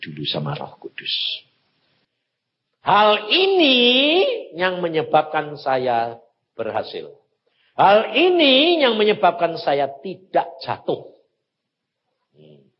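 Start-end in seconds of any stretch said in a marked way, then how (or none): 2.8-7.1 high, loud climax; emphatic preaching. Real, not acted. Preacher stressing the key lesson, high and loud. 7.8-11.1 high, loud climax; emphatic preaching. Real, not acted. Preacher stressing the key lesson, high and loud.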